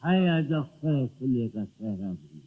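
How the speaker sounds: measured mushaira recital, each line set apart; ghazal recitation. Acted. Poet reciting a couplet to the gathering, ghazal recitation. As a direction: recite verse for an audience.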